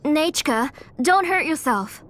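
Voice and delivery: calling out. Acted. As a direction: call out to her, concerned. Aunt calls out to child.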